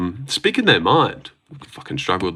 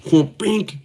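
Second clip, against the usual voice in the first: vocal punch sound effect; imitated punch sound; 10 semitones higher than usual. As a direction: mimic a counterpunch landing. Imitates counter-striking blows.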